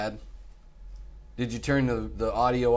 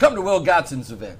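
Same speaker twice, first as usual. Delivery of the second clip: monster truck announcer; 6 semitones higher, 6 dB louder than usual. Retold or imitated. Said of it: "They always go".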